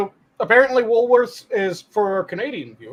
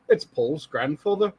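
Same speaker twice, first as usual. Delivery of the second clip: Liverpudlian line; 5 semitones lower than usual. Shown as a demonstration. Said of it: "one line that sticks in my head".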